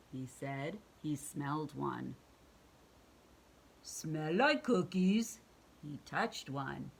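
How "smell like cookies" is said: monster voice. Acted. Cookie Monster speaks.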